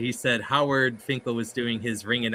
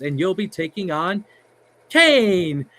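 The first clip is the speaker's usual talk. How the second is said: announcer call swelling to a boom; Howard Finkel voice; 7 semitones higher, 5 dB louder, slower than usual. Retold or imitated. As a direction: build to a loud, high announcer call on Kane. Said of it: "does his voice".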